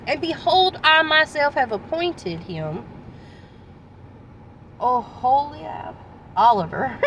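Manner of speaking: measured Bible reading; scripture reading. Acted. Preacher reading Exodus to the congregation, measured. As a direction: read the passage with gravity.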